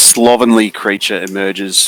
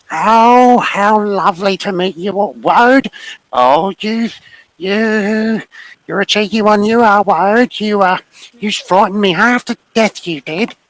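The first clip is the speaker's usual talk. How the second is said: very high-pitched, slow character voice; 13 semitones higher than usual. Voicing a wife character greeting a guest: voice like the Hamburglar. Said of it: "sounds entirely too much like the Hamburglar".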